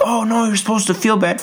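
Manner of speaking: scolding audience. Retold or imitated. Audience scolding the narrator, high mock-prim tone. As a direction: imitate shocked onlookers. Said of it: "everyone would look at me like".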